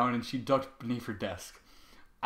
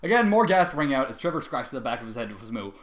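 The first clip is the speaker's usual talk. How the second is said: ordinary delivery, nothing marked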